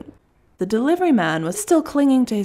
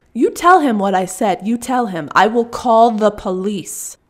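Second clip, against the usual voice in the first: louder, leaning on tell and slowing on call the police; angry demand; 5 dB louder than usual. Acted. Russian woman ordering the delivery man to pass on her warning. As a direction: lay down the final threat.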